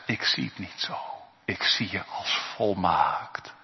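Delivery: soft, hushed voice of God. Acted. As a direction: whisper it tenderly. Quiet intimate voicing of God.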